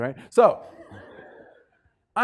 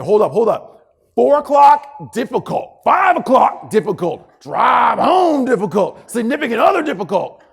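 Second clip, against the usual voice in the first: loud, high, hammed-up rant; comic exasperated yelling list; mock ranting shout; 8 semitones higher, 11 dB louder than usual. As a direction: shout each difficult louder and higher. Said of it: "some variation of the following".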